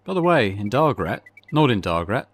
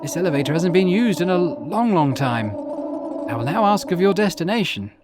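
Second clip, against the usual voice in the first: a lightly raised, sleepy elevator attendant; groggy attendant just woken, greeting a visitor; elevator manager; 5 semitones higher, slower than usual. Acted. Sleepy elevator manager greets the traveller, lightly higher voice.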